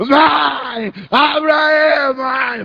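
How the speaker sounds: very slow, drawn-out, impatient insistent voice. Retelling kicking and pounding the door, imitating own impatient shouting. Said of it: "Chutava a porta e esmurrava".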